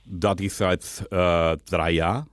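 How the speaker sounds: put-on Dutch accent, lisping. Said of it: "rede, lispeln und Holländisch".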